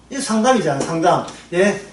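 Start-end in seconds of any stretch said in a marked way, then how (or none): none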